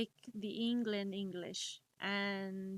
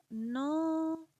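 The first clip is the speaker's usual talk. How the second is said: emphatic no; 8 semitones higher, 7 dB louder than usual. Real, not acted. Rejecting the quoted claim.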